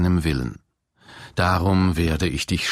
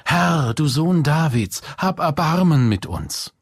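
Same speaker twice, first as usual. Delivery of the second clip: hoch und lauter gerufen, ein Flehen über die Straße; laut rufen; 9 semitones higher than usual. Acted. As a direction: ruf laut nach Jesus, höher als sonst. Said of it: "riefen sie laut". (laut und hoch flehend gerufen)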